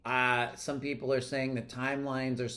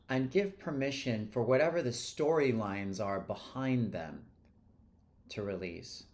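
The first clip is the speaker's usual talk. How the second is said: measured invitation to release; guided meditation. Real, not acted. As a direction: guide them gently with pauses. Guides listeners to release emotions.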